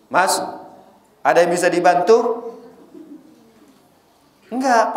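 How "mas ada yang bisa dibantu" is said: gentle receptionist. Retold or imitated. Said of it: "dengan intonasi yang lembut".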